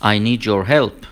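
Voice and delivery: "need your" slowly blended into "nee-jor"; slow model reading, "need your" joined with a j; linked sounds. Shown as a demonstration.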